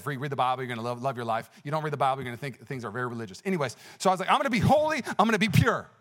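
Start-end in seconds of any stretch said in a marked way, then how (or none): 4.3-5.9 loud, raised, emphatic vow; retold declaration. Teenager vowing purity to God, retold loud declaration. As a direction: declare it firmly, voice lifted. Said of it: "I declared it that day".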